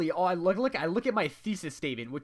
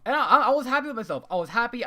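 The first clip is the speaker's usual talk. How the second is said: laughing; 4 semitones higher, 5 dB louder, faster than usual. Real, not acted. Laughing at own pride.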